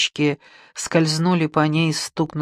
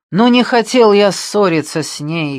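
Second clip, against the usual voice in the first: higher, louder anguished shout; 5 semitones higher, 6 dB louder than usual. Acted. Alexei alone in the flat, regretful shout. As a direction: cry it out in regret. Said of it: "крикнул он".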